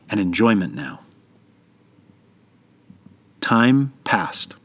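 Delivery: story narration. A narrator's reading. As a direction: tell the parable like a bedtime tale. Parable told as story.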